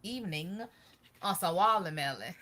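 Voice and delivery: chewing while talking; mouth full. Real, not acted. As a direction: talk through a mouthful of watermelon. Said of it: "I am chewing this evening".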